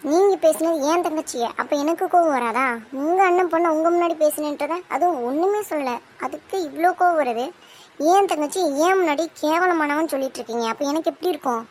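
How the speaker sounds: indignant heated reply; angry protest. Acted. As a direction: push back hard at the aunt. Bride defends her sister angrily.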